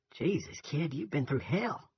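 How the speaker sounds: a touch of stunned pity; shocked sympathy. A narrator's reading. Soldier pities the bereaved boy.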